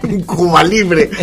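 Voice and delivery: put-on slow, drawn-out old gent ordering; lightly voiced old man. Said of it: "Soy un señor mayor".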